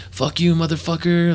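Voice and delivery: hammed-up angry girlfriend yelling; mock furious girlfriend. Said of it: "starts throwing this big scene".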